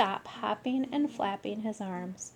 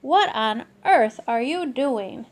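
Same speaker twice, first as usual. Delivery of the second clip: louder exasperated question; scolding; 7 dB louder than usual. Acted. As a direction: demand an answer. Mother scolding.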